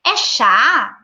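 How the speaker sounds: put-on high, slow, curious teacher voice to a toddler; engaging question to a toddler. Shown as a demonstration. Teacher asks a toddler about pretend food, curious and gentle. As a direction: draw the child out gently with questions. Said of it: "eu posso falar".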